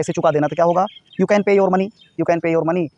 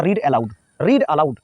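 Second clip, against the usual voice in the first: very slow, every word of "Read aloud" laid out clearly; slow model reading; much slower than usual. Shown as a demonstration. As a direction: model it slowly for the class. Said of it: "teacher models the phrase". (धीमे, साफ़ उच्चारण में "Read aloud")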